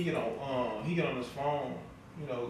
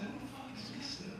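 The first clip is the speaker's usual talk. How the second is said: incredulous retort; 9 semitones higher, 14 dB quieter than usual. Retold or imitated.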